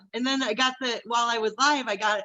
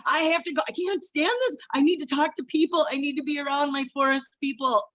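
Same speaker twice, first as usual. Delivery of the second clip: frantic inner voice; 4 semitones higher than usual. Retold or imitated. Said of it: "and I thought".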